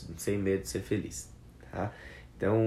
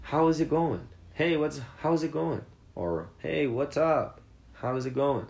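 higher, louder, easygoing greeting; casual greeting; 7 semitones higher, 4 dB louder than usual. Shown as a demonstration. Teacher acts out relaxed greetings for the class. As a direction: greet a friend with a lift.

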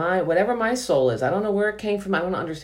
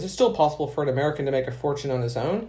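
senator; faster than usual. Acted. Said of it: "the senator says".

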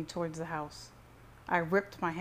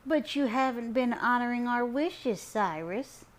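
higher, louder grandma voice; grandma chiming in; 6 semitones higher, 4 dB louder than usual. A narrator's reading. Grandma scolds grandson over family wishes, chiming in. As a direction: chime in reproachfully as grandma. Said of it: "Grandma Trudy chimed in".

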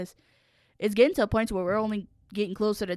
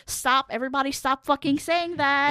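exasperated denial; 6 semitones higher than usual. Retold or imitated. Answering repeated news of the death, exasperated denial. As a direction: beg them to stop, stretching the words. Retold refusal to hear news.

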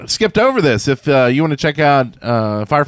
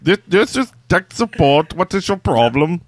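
uncertain mock Indian accent; attempted Indian accent; 4 semitones higher than usual. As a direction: have a rough go at an Indian accent. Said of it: "I don't know what accent that was".

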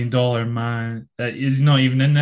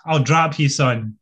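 put-on glasgow street accent. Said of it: "Pete goes".

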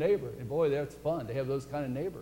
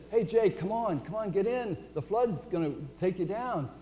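higher-pitched calling-out, lightly acted; urging neighbor; 4 semitones higher than usual. Neighbor in a rowboat calls to Jake, urging. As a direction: coax a friend into the boat, pitched up.

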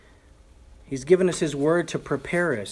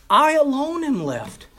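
lament; 10 semitones higher than usual. Retold or imitated. Elijah's lament.

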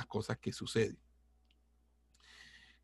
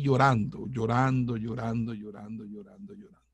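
fading repeated crying; 4 dB louder than usual. Retold or imitated. Retelling walking home in tears.

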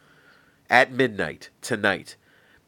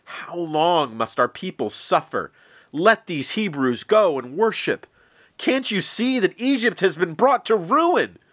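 rising, pleading, climbing much higher by the end; pleading advisors; 8 semitones higher, 4 dB louder than usual. Acted. Advisors begging the Pharaoh to free the Hebrews, rising plea. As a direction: beg him, pitch climbing higher with each line. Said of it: "pleaded with him".

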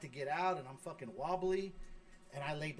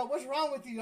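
retold alarmed question; 8 semitones higher than usual. Son bursting in, retold.

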